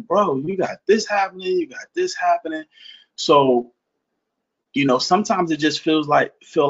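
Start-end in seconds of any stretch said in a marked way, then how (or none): 0.1-2.6 imitating a friend. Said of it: "he's like".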